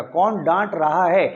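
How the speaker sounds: कौन डांट रहा है said slowly, each word spaced; slow teacher emphasis on कौन डांट रहा है; slow, emphatic model question. Shown as a demonstration. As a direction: drill the correct question slowly so they remember it. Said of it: "ये हमेशा याद रखिएगा".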